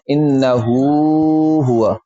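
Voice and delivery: "انہو ہوا" with a drawn-out oo separating the two h sounds; waw between the two has. Shown as a demonstration. Teacher showing the waw gap, long oo in "انہو ہوا". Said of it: "دو ہاؤں میں واو کا فاصلہ ہے".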